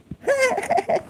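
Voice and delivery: sudden high-pitched laugh. Real, not acted. Laughs after his song.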